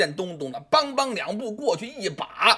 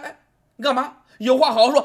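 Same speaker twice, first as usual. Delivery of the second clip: firm officer; 5 semitones higher, 5 dB louder, faster than usual. A narrator's reading. Officer intervening.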